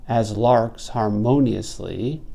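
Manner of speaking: "as larks harmoniously" slow, with the beat on "larks" and "mo"; metrical scansion. Shown as a demonstration. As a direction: slowly mark each stress in "as larks harmoniously". Scanning the metre aloud.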